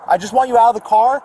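officer raising his voice to get the driver out; urgent command. Real, not acted. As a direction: push her to get out now. Officer urging driver out of car.

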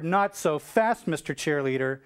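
slow, drawn-out order from a superior; commanding halt. Retold or imitated. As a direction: stretch out each word as you call him back. Admiral halts the departing midshipman.

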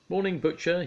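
high, loud cheery hello; cheery greeting. Acted. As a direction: greet him brightly and high. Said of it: "he said cheerily".

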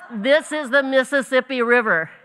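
high, loud retold insistence; mock insistence. Brother convincing his sister in the puddle, loud mock insistence. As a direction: declare it like a brother who won't back down.

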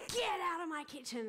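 high-pitched imitated yell; mock scream at an intruder, starting high and falling; retold scream. Film-maker retells woman confronting soldier in her kitchen, mock scream. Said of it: "she's screaming at him in Arabic".

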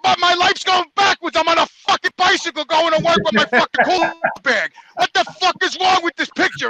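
retold outburst of self-pitying exasperation; exasperated rant. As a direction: rant in indignant disbelief. Retold rant at coworker on bicycle.

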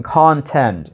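"Content" said CON-tent, first syllable strong; stress first syllable. Shown as a demonstration. Teacher repeats "Content" stressed on CON for students. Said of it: "Nhấn âm tiết đầu tiên".

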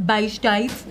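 lightly put-on Cockney; a touch of mock Cockney; Cockney accent. Nail tech naming the polish colour in a light Cockney accent. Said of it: "Cockney accent".

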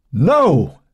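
high-pitched cry of protest; screamed. A narrator's reading. Joan refusing Cynthia's threat to tell, screaming. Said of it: "she screamed".

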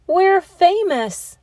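high, loud and slow, thrilled. Acted. Joe cheering with his class, high slow thrilled call. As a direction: savour the fame. Kids thrilled about letter.

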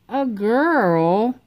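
disbelieving cry at the news; cried out. A narrator's reading. Froggy hearing the new baby is a girl, startled cry. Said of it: "cried Froggy".

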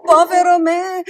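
loud, high wail of self-pity; theatrical lament at full voice; despairing cry. A narrator's reading. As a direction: cry out in dismay, drawing out the words. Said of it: "gridò Pinocchio".

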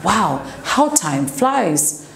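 slow, drawn-out wonder; amazed realization. Shown as a demonstration. Teacher voices someone noticing the year is ending, slow amazement. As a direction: marvel at it, stretching each word. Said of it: "And you're thinking like".

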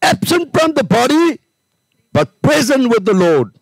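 high, ringing scripture quote; preaching scripture. Acted. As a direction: proclaim it to the congregation.

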